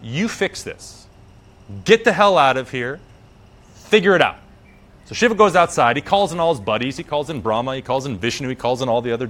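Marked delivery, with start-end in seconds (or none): 0.0-4.4 wife's mounting fury, in separate hard commands; freaking out. Acted. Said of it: "she freaks out on him".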